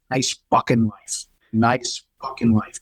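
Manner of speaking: slow, pointed jab repeated; mild mock anger. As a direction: drag it out with scorn, lightly. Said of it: "he was so mad".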